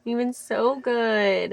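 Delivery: gentle praise. Real, not acted. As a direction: coo it slowly. Praising the dog, slow.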